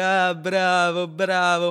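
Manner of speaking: slow, drawn-out patronizing "bravo", lightly voiced; mock pompous commissioner praising an underling; condescending praise. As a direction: pat him on the cheek with your voice, slowly. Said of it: "fa così".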